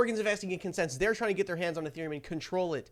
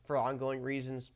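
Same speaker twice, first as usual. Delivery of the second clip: hungover; 6 semitones lower than usual. Real, not acted. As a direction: read it like you're badly hungover. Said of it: "I'm so hungover right now".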